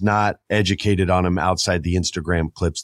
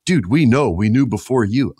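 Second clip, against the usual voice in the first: smug hardcore fan; 3 semitones higher, 3 dB louder than usual. Retold or imitated. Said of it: "All the hardcore fans are like".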